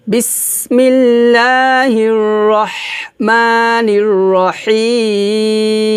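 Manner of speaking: recitação muito lenta, com o "হি" de "রহিম" bem esticado; alongamento triplo. Shown as a demonstration. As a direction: segure longamente o ই de "রহিম" antes do ম. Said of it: "এখানে আমরা তিন আলিফ টান দেব".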